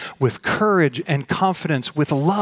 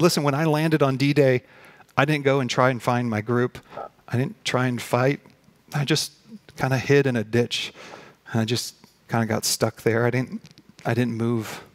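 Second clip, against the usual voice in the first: lightly acted soldier's confession; confessing. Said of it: "he starts confessing to this".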